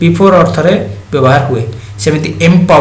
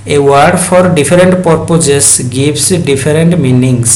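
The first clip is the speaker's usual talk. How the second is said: very slow, word-by-word dictation; teacher dictating a definition to students, very slow; dictation reading; much slower than usual. Acted. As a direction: read the definition slowly so students can write it down. Reads the definition aloud for dictation.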